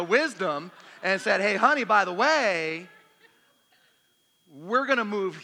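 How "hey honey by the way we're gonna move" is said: loud, raised-pitch mock prophetic announcement; hammed-up proclamation. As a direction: proclaim it much louder and higher, playing the wife. Hammed-up imagined word from wife.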